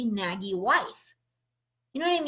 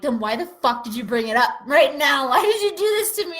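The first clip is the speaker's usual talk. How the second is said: louder, higher, faster exasperated yelling; retold angry outburst; 5 semitones higher, 8 dB louder than usual. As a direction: throw the angry question at him. Quoting her fight with him.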